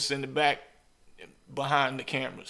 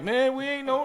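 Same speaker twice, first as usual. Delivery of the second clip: much higher, mock-innocent excuse; pitched-up playful imitation of a friend; retold excuse; 11 semitones higher than usual. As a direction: play it like a caught-off-guard buddy. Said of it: "he was like".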